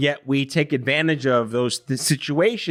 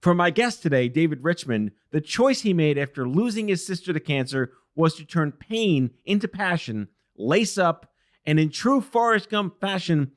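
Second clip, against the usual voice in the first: higher, bright announcer-style host intro; podcast intro read; 4 semitones higher than usual. Acted. Host introducing his show and guest to listeners, announcer read. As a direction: present the show like a polished opener.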